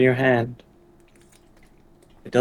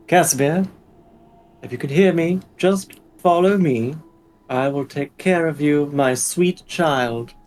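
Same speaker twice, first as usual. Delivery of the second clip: motherly tone. Acted. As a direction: soothe him like a mother. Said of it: "the motherly tone".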